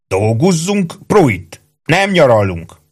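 high nagging sergeant voice; wolfishly grinning sergeant. A narrator's reading. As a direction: needle the soldier through a wolfish grin. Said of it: "közölte időről időre Ike, farkasszerű vigyorra". (farkasvigyorral piszkáló, magas őrmesterhang)

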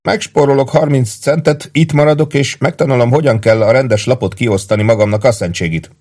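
high-pitched, merry declaration; lively and chipper, easing down at the end; cheerful. A narrator's reading. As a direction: announce your plan gleefully, pitched well up. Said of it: "szólalt meg vidáman Péntek".

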